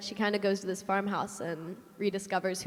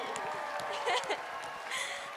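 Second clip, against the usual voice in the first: teary laugh; 10 semitones higher, 7 dB quieter than usual. Real, not acted. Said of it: "I can't stop crying".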